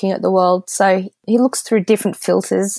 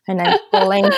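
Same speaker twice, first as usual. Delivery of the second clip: dramatic reveal; 12 semitones higher than usual. Retold or imitated. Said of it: "I looked him straight in the eye when I said".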